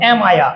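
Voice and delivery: "am I a" run together as "ema-ya"; linked collocation. Shown as a demonstration. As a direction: glide "am I a" into one word. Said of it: "এটাকে আমরা collocation করব". ("am I a" জুড়ে "এমায়া" উচ্চারণ)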